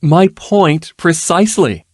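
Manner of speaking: slow, dry and amused; wry. A narrator's reading. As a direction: deliver it wryly and slowly. Nobleman's wry retort.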